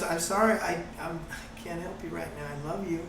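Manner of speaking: put-on hushed, tender comfort to a crying child; soft soothing. Parent comforting a crying child, soft and tender.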